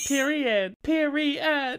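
campy period. Pretend. Co-host echoes the Trixie line in a campy voice. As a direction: echo the quote with sass.

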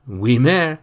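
put-on polite boy hiding disgust; sweetly feigned innocence; young boy voice. A narrator's reading. Jacques answers his mother.

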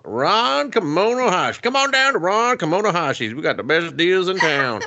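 salesman voice. Pretend. Mock local TV ad pitch.

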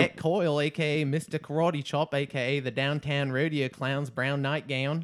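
playful Australian accent. Shown as a demonstration. Showing off supposed fluency, Australian accent. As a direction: rattle off nicknames in put-on Australian. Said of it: "fluent in Australian".

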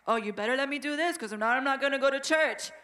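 hammed-up bratty child, quick and pushy; bratty threat. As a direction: sneer it like a spoiled kid threatening. Child threatening parents, acted quote.

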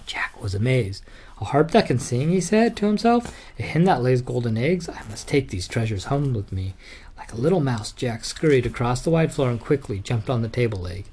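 lively bedtime story read; story narration. Acted. Dad reading Jack and the Beanstalk to his son, lively storytelling. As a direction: read it out to a little boy.

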